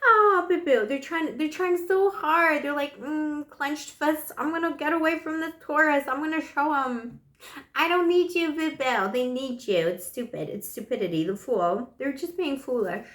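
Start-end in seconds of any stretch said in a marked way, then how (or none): 0.1-2.6 high, mock-whimpering pity for the ex. Reader pities the ex with a mock whimper. Pitying the stubborn ex. 3.0-9.1 higher, mock-defiant sulky voice. Reader mocks the ex's defiance in a higher sulky voice.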